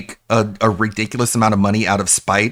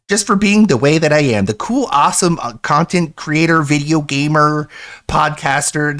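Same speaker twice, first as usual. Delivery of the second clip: higher, sarcastic bragging voice; sarcastic mockery; 4 semitones higher than usual. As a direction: brag sarcastically as him. Mocking DSP's self-image.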